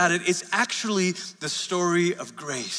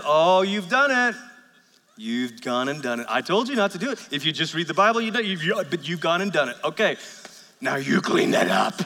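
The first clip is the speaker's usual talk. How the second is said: scolding God. Retold or imitated. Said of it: "God looks at us and says".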